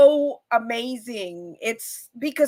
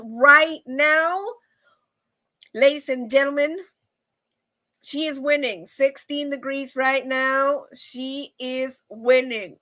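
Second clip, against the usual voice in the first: drawn-out contest announcer delivery; stretched-out play-by-play for a pretend contest; mock announcer. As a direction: announce the leader with slow, playful ceremony. Mock announcing a weather contest winner.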